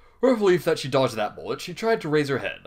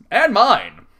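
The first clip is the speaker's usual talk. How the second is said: higher, louder joking cry; mock wounded outburst; 10 semitones higher, 11 dB louder than usual. Real, not acted. Reader claiming her own lost confidence, loud. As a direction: blurt it like a joke wound.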